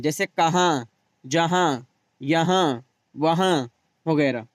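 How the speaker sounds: कहाँ, जहाँ, यहाँ, वहाँ ending in a nasal vowel with no full न; nasal noon. Shown as a demonstration. Teacher showing the nasal noon for students. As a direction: let the न go through the nose. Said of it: "जो नून नाक में पढ़ा जाए".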